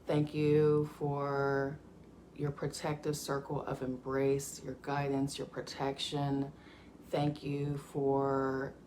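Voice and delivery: slow, reverent prayer with long pauses; spoken gratitude prayer. Acted. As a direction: pray aloud slowly, thanking each name with care.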